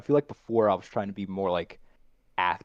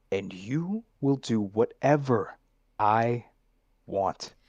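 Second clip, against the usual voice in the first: villain line read; slower than usual. Shown as a demonstration. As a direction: purr it like a smug captor. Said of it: "and then you can go".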